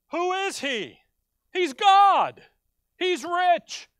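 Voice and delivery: high, loud, ringing proclamation; preaching shout. Real, not acted. Preacher proclaiming to his congregation, full-voice shout. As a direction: belt the answer to the congregation.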